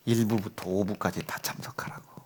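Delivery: stern whisper of a father's command; hushed scolding. Retold or imitated. Father quietly reminding son of his order.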